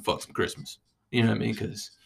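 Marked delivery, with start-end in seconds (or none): 0.0-0.8 put-on hushed little-kid aside; mock child whisper. Imagining his five-year-old self, hushed whisper.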